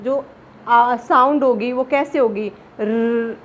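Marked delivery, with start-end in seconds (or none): 2.8-3.4 र held long with a trill; drawn-out र. Shown as a demonstration. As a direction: stretch the र sound out. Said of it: "थोड़ा सा लंबा चलेगा ये". (र को लंबा खींचकर बोलना)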